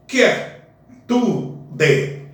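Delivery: "quietude" with qui and e merged, quie-tu-de; elided pronunciation. Shown as a demonstration. Teacher to students showing the elision. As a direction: run the first vowels of "quietude" together. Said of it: "fazer a elisão de quer".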